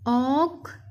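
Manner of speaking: ऑकवर्ड as "ऑक", long pause, "वर्ड"; split into syllables. Shown as a demonstration. Teacher breaking up a word, ऑकवर्ड split in two. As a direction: say ऑकवर्ड in two far-apart parts. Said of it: "इसके अलग-अलग".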